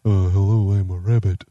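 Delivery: rabbit voice. Acted. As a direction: squeak it out like a shy bunny. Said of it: "this is Kevin Miller as a rabbit".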